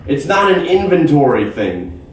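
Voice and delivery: high-pitched, drawn-out exasperated rant; flipping out. Retold or imitated. Woman flips out explaining the minibar sensors, exasperated. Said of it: "she flips out".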